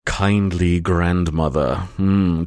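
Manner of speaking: slow seductive card read; sexy voice. Pretend. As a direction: purr the card name slowly. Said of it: "read a name in a sexy voice".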